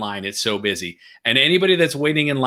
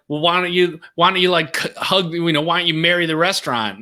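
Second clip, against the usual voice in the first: snarky; 4 semitones higher than usual. Retold or imitated. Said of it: "some snarky".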